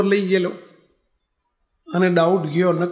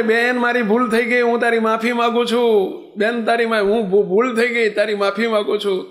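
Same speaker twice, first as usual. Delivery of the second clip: pleading shout; 5 semitones higher than usual. Acted. Blinded rickshaw driver begging the girl, a pleading shout. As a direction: call out, desperate and sorry. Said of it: "પેલો બૂમ પાડે".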